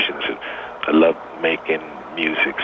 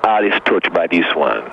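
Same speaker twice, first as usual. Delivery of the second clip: put-on Jamaican accent. Hyping his new song on air, in a Jamaican accent. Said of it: "let me hear your best Jamaican accent".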